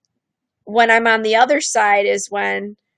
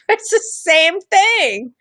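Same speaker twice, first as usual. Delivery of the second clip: laughing aside; 9 semitones higher, much slower than usual. Real, not acted. Laughs at her own joke.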